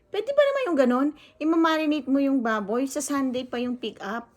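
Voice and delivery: high, loud, outraged disbelief; can you believe this, rising up high; indignant. Real, not acted. Vlogger venting to viewers about marinated pork, outraged.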